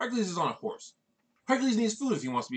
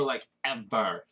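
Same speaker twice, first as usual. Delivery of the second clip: slow, low and dragged out; drawn-out like ever; 7 semitones lower, much slower than usual. Acted. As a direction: stretch it out with a mock-bored drawl. Grounded for like ever.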